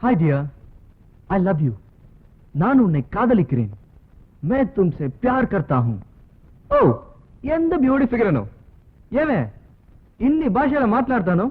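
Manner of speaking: lover's dialogue practised aloud; rehearsing romance dialogue. Pretend. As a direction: declaim love lines like a film hero. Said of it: "கத்து பேசி பழகணும்னா". (காதல் வசனம் பயிற்சி)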